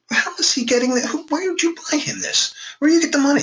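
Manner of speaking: a touch of mock disbelief; incredulous question. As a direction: ask it like a baffled brother. Retelling asking sister about console.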